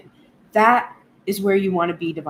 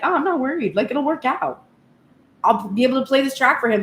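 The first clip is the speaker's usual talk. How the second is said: cheerful retold reassurance; 5 semitones higher, 3 dB louder than usual. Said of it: "I was like".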